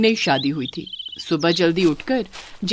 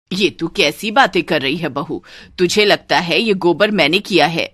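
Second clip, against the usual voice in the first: lightly voiced, lower mother-in-law; indignant mother-in-law; 3 semitones lower than usual. Mother-in-law denying the bride's accusation, indignant. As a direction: push back, offended.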